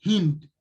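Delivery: "Hind" with a clear h and short i; Arabic word Hind said carefully. Shown as a demonstration. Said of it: "That is how we say India".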